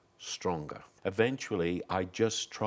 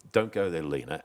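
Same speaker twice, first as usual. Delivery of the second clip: louder, overacted line; acted melodrama; 3 semitones lower, 4 dB louder than usual. Shown as a demonstration. Demonstrating melodrama to the interviewer, overacted. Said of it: "and I act it".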